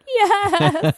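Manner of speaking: high-pitched retold wail, half laughing; mock tearful laughing. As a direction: imitate crying and laughing at once. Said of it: "Are you laughing because you're crying".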